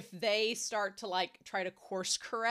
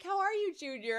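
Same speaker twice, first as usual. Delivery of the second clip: cocky greeting, pitched up then dropping; 8 semitones higher than usual. Acted. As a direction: talk down to a junior, cockily. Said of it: "I love how just cocky he is".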